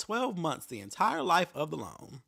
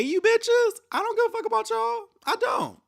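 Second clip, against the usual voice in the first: furious shout; 6 dB louder than usual. Real, not acted. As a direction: blow up at the lenders. Ranting at the loan company.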